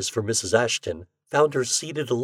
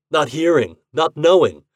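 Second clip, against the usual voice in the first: bitter; 7 semitones higher, 8 dB louder than usual. A narrator's reading. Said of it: "he exclaimed bitterly".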